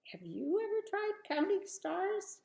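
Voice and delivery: lightly voiced Abraham, high and eager; a hint of old Abraham marvelling. Abraham voiced counting stars.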